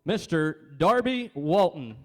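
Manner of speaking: slow, drawn-out ceremony announcement; announcer naming a winner. Real, not acted. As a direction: announce the name with deliberate weight.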